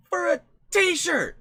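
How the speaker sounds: drawn-out, loud, high cry of disbelief; outraged disbelief. Real, not acted. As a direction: stretch it out, appalled by the price. Outrage over t-shirt price.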